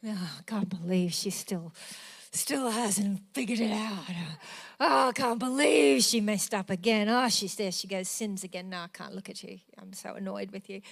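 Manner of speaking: mock exasperated sigh of disappointment. Imagined Jesus annoyed at her repeated sins, mock exasperation. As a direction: play an imagined Jesus rolling his eyes, half-hearted. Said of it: "rolled eyes".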